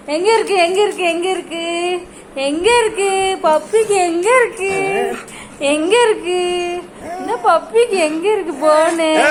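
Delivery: sing-song teasing with stretched endings; playful pet talk. Real, not acted. Owner asking the puppy where the phone is, sing-song teasing. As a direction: coo the question at a pet, drawing out the last vowels.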